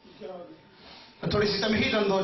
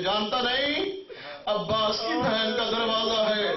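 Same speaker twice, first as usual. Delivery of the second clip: raised voice; 5 semitones higher than usual. A narrator's reading. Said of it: "ऊंची आवाज में कहती है".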